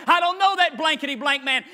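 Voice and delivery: cursing denial. Retold or imitated. Peter cursing at the accusers, angry denial. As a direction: curse and deny him. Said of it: "He cusses and says".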